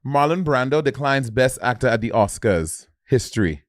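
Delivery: lightly accented West Indian read-out; attempted West Indian accent. Shown as a demonstration. Guest proving they can do it, light West Indian accent. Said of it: "I need something to read and say".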